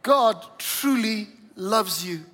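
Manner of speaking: slow, deliberate and meant; earnest, spaced-out words of assurance; heartfelt sincerity. Shown as a demonstration. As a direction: say it slowly, as if you mean every word. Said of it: "Mean it as you say it".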